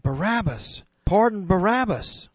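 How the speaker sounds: a mob shouting its demand; crowd crying out. Acted. Preacher voicing the mob's shout. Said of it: "But the crowd cried".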